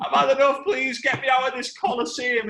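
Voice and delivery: high, loud mock wail; hammed-up desperate plea; wounded gladiator. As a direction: beg to be let out. Beaten gladiator begging out.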